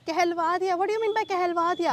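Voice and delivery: scoffing at a father's word for a forced apology; indignant echo. Real, not acted. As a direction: repeat "कहलवा दिया" with outraged sarcasm, leaning on "mean". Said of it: "बोलना बनता है भाई".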